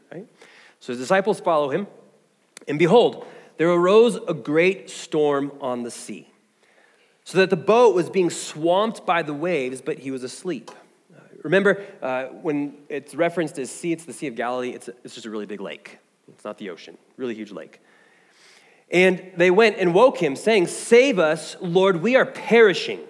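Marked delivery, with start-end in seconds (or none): 0.8-10.7 measured Bible reading to the congregation; scripture reading. Acted. Reads scripture aloud. 18.9-20.7 dramatic Bible reading, lifting the quoted voices; scripture reading. Acted. Reads scripture aloud. 20.7-23.0 "Save us" stretched out slowly, a read-aloud plea; slow scripture reading. Acted. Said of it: "this ought to be our cry".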